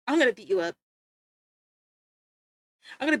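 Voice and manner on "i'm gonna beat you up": lower, put-on tough voice, playfully menacing; mock tough-guy threat. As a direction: growl it like a fake bully, half-joking.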